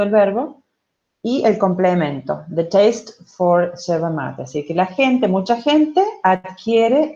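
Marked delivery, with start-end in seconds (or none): 2.5-4.4 careful, slow classroom reading of English. Shown as a demonstration. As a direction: read the example slowly for students. Reads English phrase aloud.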